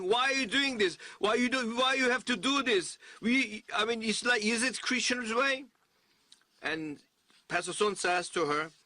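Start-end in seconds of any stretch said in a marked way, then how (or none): 0.0-5.7 retold crying daughter. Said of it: "like, crying and then saying".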